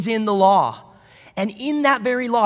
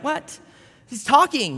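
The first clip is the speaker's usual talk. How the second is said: mock astonishment; 5 semitones higher, slower than usual. Owner reacting to a talking dog, in mock disbelief. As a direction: play stunned disbelief, pitched up. Imagined shock at talking animal.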